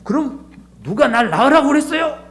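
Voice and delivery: put-on a sulky child snapping back at a parent; child talking back. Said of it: "자녀가 그러는 거예요".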